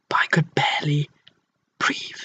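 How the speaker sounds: soft, fading to a whisper; hushed, running out of breath; barely breathing. Acted. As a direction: let the words die away as if short of air. Narrator struggling for air.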